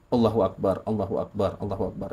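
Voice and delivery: soft repeated takbir, fading away; hushed recalled invocation, trailing off; inward prayer. Retold or imitated. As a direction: murmur it privately, as if in the heart. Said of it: "dalam hati saya cuma ngucap".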